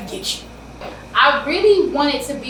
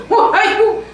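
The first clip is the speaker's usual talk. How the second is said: high, loud laughing "why you"; laughing disbelief; 11 semitones higher, 8 dB louder than usual. Real, not acted.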